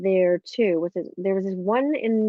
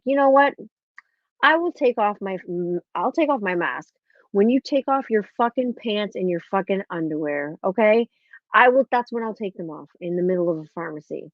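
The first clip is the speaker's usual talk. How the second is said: retold angry outburst. Finally losing it at pharmacy clerk.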